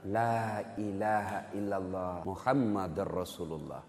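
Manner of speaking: slow, low, soft last words; laboured dying utterance. Acted. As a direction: struggle slowly through the last confession. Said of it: "akhirnya dengan susah payah mengucapkan".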